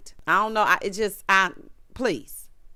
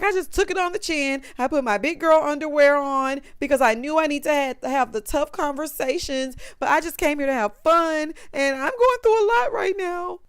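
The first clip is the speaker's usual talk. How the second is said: higher, strained voice for a tearful Jasmine; retold tearful plea; 5 semitones higher than usual. Recapper voices pregnant Jasmine crying to the house, higher and tearful. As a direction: voice Jasmine near tears, pitched up. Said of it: "now she's crying".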